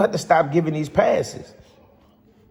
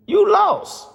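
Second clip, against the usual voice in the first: high, mocking jab; mocking taunt; 4 dB louder than usual. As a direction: throw the taunt like the critics would. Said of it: "they gonna say".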